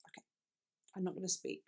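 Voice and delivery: sigh, then a quiet, withdrawn mumble; hurt, giving up. Acted. Singer to partner who glares at her, hurt and quiet. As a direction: softly act out shutting down. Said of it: "So she's like".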